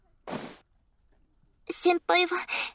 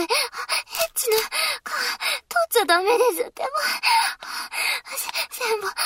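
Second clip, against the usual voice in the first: insistent protest; faster than usual. Acted. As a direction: rush it out, pleading and scolding at once.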